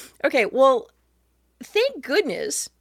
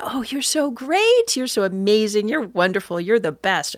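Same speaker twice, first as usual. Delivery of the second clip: mock sycophantic. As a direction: flatter them like a hammed-up brown-noser. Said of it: "it always has this kind of sycophantic".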